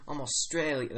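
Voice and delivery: trying on an Australian accent; broad Australian vowels on "Australian". Shown as a demonstration. Game master copying the player's demo, Australian accent. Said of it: "That works".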